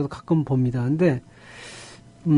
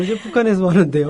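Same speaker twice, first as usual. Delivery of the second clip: playful hint of a North Korean accent, lightly put on; North Korean dialect. Joking with the host, a light North Korean accent. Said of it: "일부러 또 사투리를 또 쓰시는 것 같은데요".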